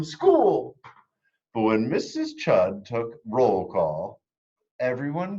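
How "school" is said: high, loud and thrilled; excited cry. Acted. Girl arriving at school, crying out high and loud. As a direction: finish the cheer bursting with joy. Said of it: "said Chrysanthemum".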